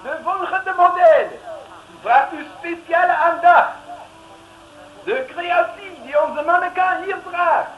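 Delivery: ceremonious show announcer voice. Acted. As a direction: announce it to the audience. Fashion show announcer presenting. (plechtige presentator)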